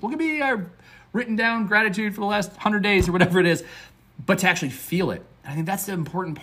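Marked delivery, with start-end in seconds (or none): 0.0-3.6 high-pitched, self-satisfied show-off parody; mock bragging. Coach parodying a proud journal keeper, high mock boast. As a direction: jump up high to mock a box-checker. Mocks someone boasting of checking boxes.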